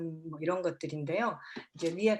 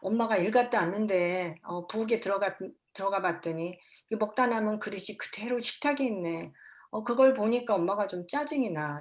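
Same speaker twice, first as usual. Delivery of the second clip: calm, kind. Shown as a demonstration. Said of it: "캄하게, 예, 친절하게".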